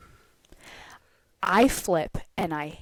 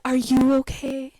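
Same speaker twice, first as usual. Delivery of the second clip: imitated mellow concern, pitched up; Mario; 5 semitones higher, 4 dB louder than usual. Ride worker checking on shaken rider, chill and mellow. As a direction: lightly mimic an unbothered, chill guy. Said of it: "so mellow".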